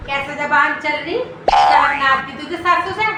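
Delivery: lightly voiced nagging mother-in-law; scolding mother-in-law. Mother-in-law berating her daughter-in-law over tea, mildly nagging.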